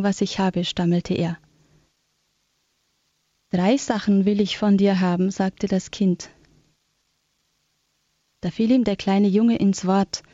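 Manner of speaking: measured storybook narration with long pauses between sentences; story reading. A narrator's reading. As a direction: read a Christmas tale aloud, sentence by sentence. Reads a Christmas story aloud. (ruhig vorgelesene Weihnachtsgeschichte)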